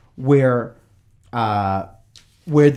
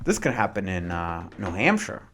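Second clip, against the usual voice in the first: softer, lower anxious murmur; worried colonists; 7 semitones lower, 7 dB quieter than usual. Retold or imitated. Alarmed colonies fearing trials in Britain: low worried murmur. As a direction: fret about it under your breath.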